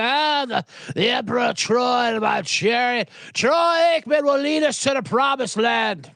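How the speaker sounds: lightly mocking an epic announcement; mock grand herald. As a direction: proclaim it like a lightly hammed-up royal crier.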